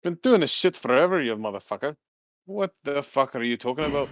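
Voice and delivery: put-on grizzled old bomber. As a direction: brush him off like an old hand.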